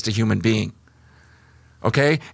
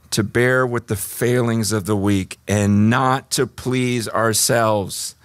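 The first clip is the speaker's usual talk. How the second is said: scripture reading. Acted. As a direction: read the passage with weight. Reads scripture.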